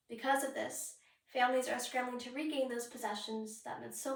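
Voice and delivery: measured, slightly solemn article reading; sober, understated news narration. Acted. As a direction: read it out evenly like a newspaper feature.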